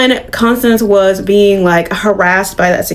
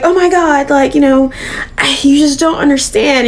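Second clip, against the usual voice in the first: higher pitched imitating of an exasperated plea; hammed-up high flustered excuse; mock exasperation; 5 semitones higher than usual. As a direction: squeal it like a caught liar playing innocent. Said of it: "And she's just like".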